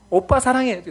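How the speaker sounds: put-on high, loud kid's declaration of love; little daughter. Small daughter declaring love at graduation, mock high child shout. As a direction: call it out like a kindergartner, high. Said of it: "저희 딸만".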